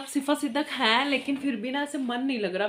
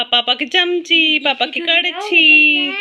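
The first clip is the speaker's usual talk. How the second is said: slow, drawn-out teasing chant; teasing singsong; 4 semitones higher, 11 dB louder, much slower than usual. Pretend. Mother teasing her toddler about papa, slow singsong. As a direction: tease the little one slowly, sing-song.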